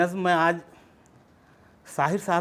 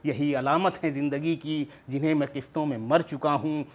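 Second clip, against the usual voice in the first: poetry recitation. Acted. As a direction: recite verse line upon line, descending to the close. Recites second poem in full.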